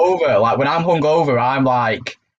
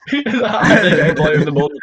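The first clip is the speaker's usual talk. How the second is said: laughing; slower than usual. Real, not acted. Mocking friend's award, laughing.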